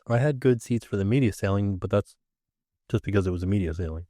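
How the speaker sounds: talking through hiccups. Real, not acted. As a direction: speak with hiccups breaking in. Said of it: "Excuse me, I got the hic-, hiccups now".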